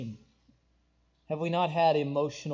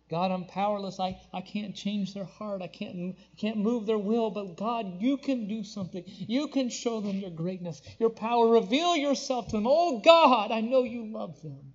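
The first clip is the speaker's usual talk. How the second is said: pleading prayer; 4 semitones higher than usual. Retold or imitated. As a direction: plead with God for someone else. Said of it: "begging God".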